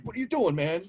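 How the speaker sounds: high mock-startled voice; startled shopper. Shopper questioning the creepy whisperer, mock alarm.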